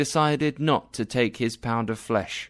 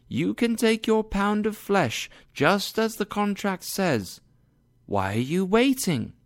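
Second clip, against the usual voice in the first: Portia as judge; 9 semitones higher than usual. A narrator's reading. Portia voiced.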